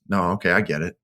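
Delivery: understated imitation of a cold withdrawal; mildly icy retold resignation; retold stone cold. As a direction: imitate someone shutting down coldly, without pushing. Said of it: "she just goes stone cold face".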